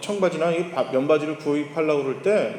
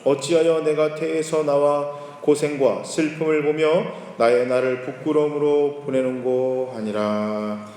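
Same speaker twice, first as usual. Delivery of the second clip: slow, solemn scripture reading; 2 semitones lower than usual. Acted. Preacher reading scripture slowly to the congregation. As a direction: read the verses out slow and solemn.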